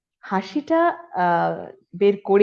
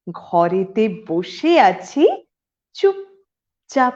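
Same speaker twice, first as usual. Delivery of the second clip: slow, firmly voiced verse line; measured recital with drawn-out words; poem refrain; 4 dB louder, much slower than usual. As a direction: recite it fully, lifting at the end of the first phrase. Poem refrain, first take.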